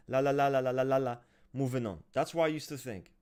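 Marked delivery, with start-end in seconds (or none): 0.1-1.2 rapid, loud mocking la-la-la; dismissive blather. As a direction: rattle it off to brush away the drama. Dismisses others' weeping as blather.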